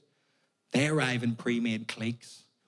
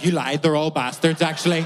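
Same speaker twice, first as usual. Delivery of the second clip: indignant complaint; 3 semitones higher, 7 dB louder than usual. Retold or imitated.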